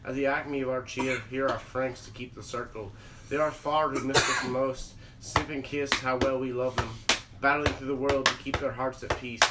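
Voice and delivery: put-on Irish accent, low and hushed recitation. Reciting a drinking toast to friends, Irish accent. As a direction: read the poem softly with an Irish lilt. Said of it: "doing it in a fucking Irish accent".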